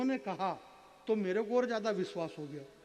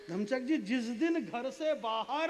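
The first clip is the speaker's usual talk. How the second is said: poetry recitation. Acted. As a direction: present the prized line slowly to the audience. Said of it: "अब एक line है मेरे पास". (मंच पर धीमा, ऊँचे सुर में कविता पाठ)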